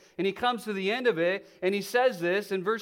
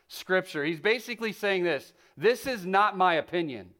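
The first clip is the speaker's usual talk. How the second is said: projected, deliberate sermon delivery; emphatic preaching. Acted. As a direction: drive the point home to a congregation.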